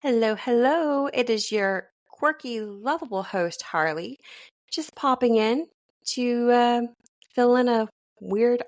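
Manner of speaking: upbeat host announcement; radio host voice; announcer. Acted. Host's inserted announcement.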